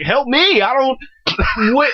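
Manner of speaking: high, whimpering panicked plea; scared passenger begging the furious driver, high and whiny; mock panic. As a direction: plead like you're about to be killed. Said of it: "I was like".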